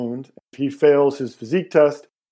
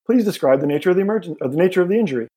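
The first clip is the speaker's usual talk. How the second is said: high, quick, calm machine voice; calm tinny voice; 5 semitones higher, faster than usual. Acted. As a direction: speak like a calm first aid kit. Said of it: "a calm, tinny voice saying".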